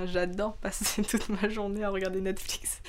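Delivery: jokingly confessing, laugh breaking in; light self-teasing chuckle; amused, laughing. Real, not acted. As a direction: say it through little laughs. Jokes about her hobby, laughing.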